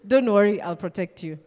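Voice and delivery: a hint of a weak guy promising safety; unconvincing protector. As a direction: say it like a skinny guy nobody would trust. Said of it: "if this guy says".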